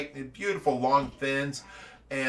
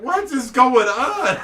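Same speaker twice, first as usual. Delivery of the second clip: higher, louder and slow; bewildered outburst; startled; 9 semitones higher, 9 dB louder, slower than usual. Retold or imitated. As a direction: Josh startled as Shaq pushes him down. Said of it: "And Josh is like".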